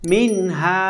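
"মিন হা" with the n clear, no nasal hum; clear, no ghunnah. Shown as a demonstration. Teacher showing learners the rule, "মিন হা" clear without ghunnah. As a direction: say "মিন হা" cleanly, no held n. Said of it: "সুন্দর করে উচ্চারণ করে আমরা পড়ব".

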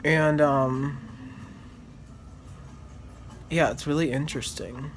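stiff cheeks under gel; limited smiling, tight face; wearing a face mask. Real, not acted. Seen 3: Clear gel sheet mask covers face; lips free through mouth opening.

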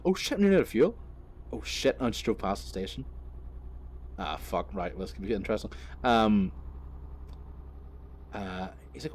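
normal talking voice

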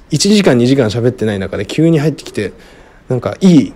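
ordinary delivery

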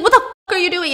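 high, loud panicked yell; Jay yelling as the car inches closer; panicked shout. Retold or imitated. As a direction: scream as the car pins you. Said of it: "And he's like".

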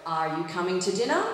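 low start, climbing sharply on "dinner"; rising question intonation. Shown as a demonstration. Teacher models a yes-no question for repetition, rising tune on "dinner". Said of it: "our intonation goes up".

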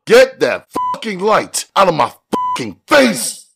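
high-pitched angry yell; furious demand. A narrator's reading. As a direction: explode at whoever holds the light. Father blinded, demands light moved.

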